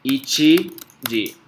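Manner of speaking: very slow, syllable by syllable; spelling out slowly. Shown as a demonstration. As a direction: draw out each syllable for writing. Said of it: "cómo escribe yuichiji".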